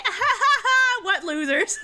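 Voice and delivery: loud, hammed-up mocking laugh, drawn out; mocking jeer. British American jokingly making fun of either side, gleeful mockery. Acting out mocking both nations.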